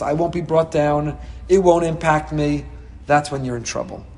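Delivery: ordinary talk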